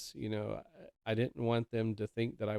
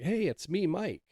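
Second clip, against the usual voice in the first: high singsong call from outside; calling back; 9 semitones higher, 3 dB louder than usual. Retold or imitated. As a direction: imitate a visitor announcing himself through the door. Visitor calling back through door.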